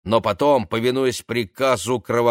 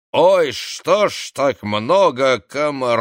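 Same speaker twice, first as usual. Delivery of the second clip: put-on slurred drunk voice; 3 semitones higher, 4 dB louder than usual. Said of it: "уже знакомый заплетающийся голос".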